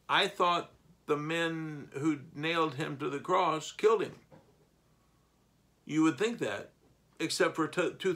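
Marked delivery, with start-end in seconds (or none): 0.1-4.1 mock disbelief. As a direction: act the surprised listener who objects. Voicing a puzzled listener.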